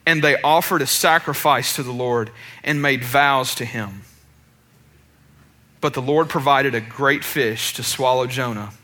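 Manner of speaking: low, measured Bible reading; scripture reading. Acted. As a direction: read the verses aloud, low and evenly. Reads scripture aloud.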